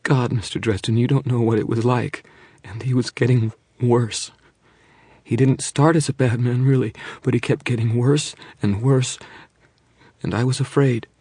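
high, loud, distressed plea; frightened pleading. Acted. Terrified wife pleading with detective, high and loud. Monica frightened confession, moaning on.

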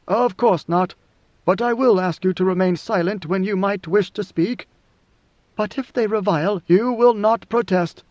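lightly voiced ruler giving instructions; a touch of imperial command; God Emperor, firm.

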